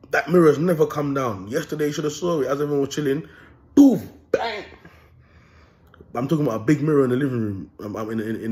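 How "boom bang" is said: high, explosive boom and bang; imitated crash. Telling how the hallway mirror fell, explosive sound-effect words. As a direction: punch out each impact high.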